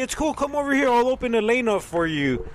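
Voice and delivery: lightly voiced manager waving someone over; helpful store manager.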